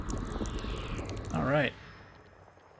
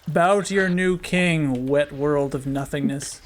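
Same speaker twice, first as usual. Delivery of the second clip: dark lord; slower than usual. Pretend. New king commands world.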